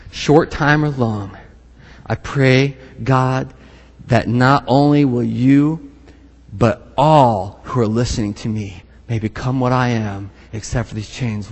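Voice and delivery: lightly voiced earnest Paul; earnest slow plea. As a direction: plead gently and slowly. Paul's earnest reply, slowed.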